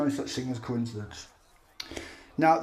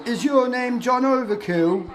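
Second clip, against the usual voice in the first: high, slow and louder mock question; mimicking Spectrum; 9 semitones higher, 5 dB louder than usual. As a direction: ham up the question in someone else's voice. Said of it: "the one who Spectrum said".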